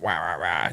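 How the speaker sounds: low, quick "wah wah wah" noise; low blah-blah imitation; low mimicked chatter. Mimics small fish competing.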